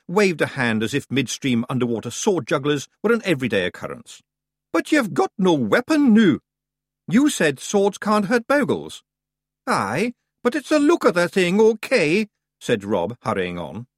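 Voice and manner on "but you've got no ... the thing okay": high, loud broad Scots telling-off; loud Scots scolding. Acted. Rob scolding Roland about the sword, loud. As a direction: give the lad a ticking-off.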